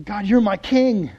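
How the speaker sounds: fervent, drawn-out declaration; reverent surrender. Acted. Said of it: "something different about ... the way he's referring".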